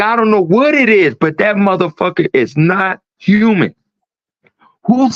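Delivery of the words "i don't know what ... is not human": imitating freaked-out woman. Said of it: "freaked out".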